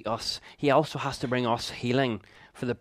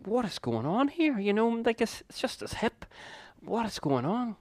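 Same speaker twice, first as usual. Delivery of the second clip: much higher, imitating a tearful wail; mock bawling bewilderment; 12 semitones higher than usual. Man bawling during prayer over his son's hip, mock-tearful bewilderment. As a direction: retell being baffled by your own sobbing, pitched right up. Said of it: "bawling my eyes out".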